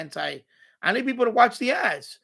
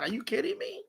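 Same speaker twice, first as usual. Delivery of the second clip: disbelief; 6 semitones higher, 8 dB quieter than usual. Retold or imitated. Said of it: "I'm like".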